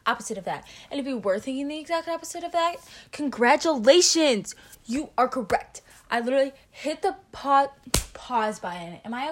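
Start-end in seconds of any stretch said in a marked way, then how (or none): 3.1-5.8 mock congratulations. Announcing the right answer.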